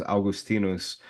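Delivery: "Augustinus" said ow-goos-TEE-noos; Latin pronunciation. Shown as a demonstration. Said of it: "But in Latin".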